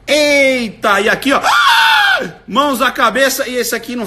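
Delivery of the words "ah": sudden high yelp of shock; hammed-up gasp-scream; mock surprised scream. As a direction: shriek it out like someone caught off guard. Imitating the crowd's surprise.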